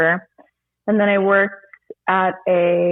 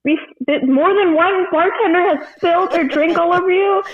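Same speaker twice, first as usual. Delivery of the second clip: retold panic; 7 semitones higher than usual. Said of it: "I'm freaking over here about to cry".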